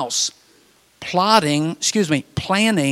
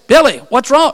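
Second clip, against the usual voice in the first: concerned call; 9 semitones higher, 7 dB louder than usual. Retold or imitated. Counselor calling in the dark.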